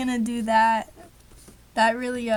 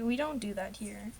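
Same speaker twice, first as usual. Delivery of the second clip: a softer, whimpering we don't do that here; mock whimper; 3 semitones lower, 8 dB quieter than usual. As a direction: pretend to be upset, half-crying. Repeated after sorry, softer.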